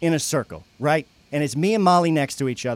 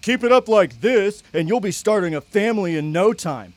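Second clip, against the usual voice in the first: mocking judgy girl; 5 semitones higher, 4 dB louder than usual. Shane retelling Judith's loud public put-down, lightly mocking. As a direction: do a snide, preachy Judith. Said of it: "says loudly in front of everyone".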